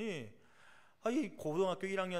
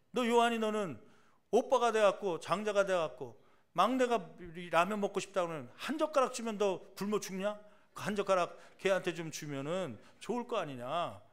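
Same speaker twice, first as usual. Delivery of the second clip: louder, higher fatherly rebuke; father telling off the older brother, raised voice; retold stern scolding; 3 semitones higher, 4 dB louder than usual. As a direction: scold the older son sharply.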